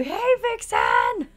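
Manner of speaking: sing-song hello to Vixen; pet voice. Real, not acted. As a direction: coo at the cat. Greeting the cat.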